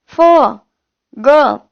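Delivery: फ and ग with nukta, each sounded out alone; nukta sounds. Shown as a demonstration. Teacher showing how dotted letters are read, फ and ग with nukta. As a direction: sound out फ, then ग, as separate dotted consonants. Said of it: "इस तरीके से पढ़ते हैं".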